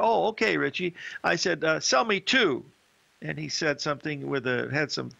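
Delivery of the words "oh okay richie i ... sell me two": insistent retold order. Telling his broker to sell anyway, mock-insistent and raised. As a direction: brush off the warning and insist. Insisting on the trade despite warning.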